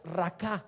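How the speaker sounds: raká, accented on the last A; stress on final A. Shown as a demonstration. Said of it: "con acento en la A".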